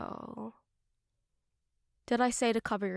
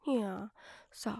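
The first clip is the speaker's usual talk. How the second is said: normal talking voice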